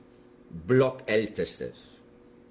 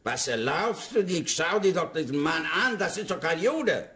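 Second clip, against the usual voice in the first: barked German command, pitched higher and sharp; commanding German rebuke, higher, like an SS officer; imitating an SS officer; 7 semitones higher than usual. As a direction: play the SS man telling the guards off. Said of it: "I started to scream in S S language".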